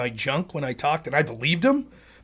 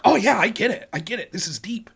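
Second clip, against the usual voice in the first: hammed-up art appreciation, fading away; art-scene pretension; 5 semitones higher than usual. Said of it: "people in the art community are like".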